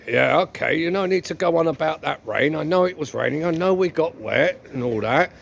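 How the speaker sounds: lightly voiced henpecked husband; mildly exasperated husband giving in; husband, fed up. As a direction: concede the blame with a touch of sarcasm.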